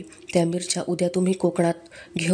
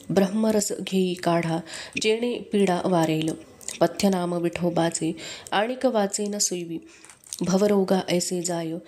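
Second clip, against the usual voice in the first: slow, measured devotional verse; unhurried chanting of a saint's verse; abhang recitation; slower than usual. A narrator's reading. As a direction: recite the abhang slowly like a prayer.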